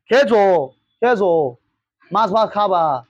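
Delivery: light mock Bangla lilt, barely put on; Bengali imitation. Teacher mimics local Bengali speech for his class, only lightly put on. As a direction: toss off a quick imitation of Bengali. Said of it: "ऐसे करके बोलता है यहाँ पर भाषा".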